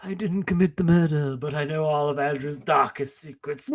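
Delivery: secretive whisper. Acted. Acting out suspect denial.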